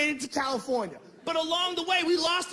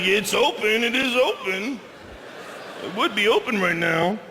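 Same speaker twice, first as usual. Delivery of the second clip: eager pleading; 3 semitones lower, 4 dB louder than usual. Retold or imitated. Friends eager to keep going.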